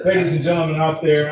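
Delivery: loud call to the whole courtroom; loud announcement. Real, not acted. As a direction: project it to the back of the room. Judge addresses courtroom audience.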